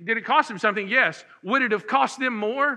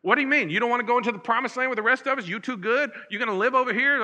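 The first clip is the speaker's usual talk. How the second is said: higher-pitched, quick-fire mock objection; indignant challenge; 4 semitones higher, faster than usual. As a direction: imitate affronted tribesmen confronting the others. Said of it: "it caused this big tussle".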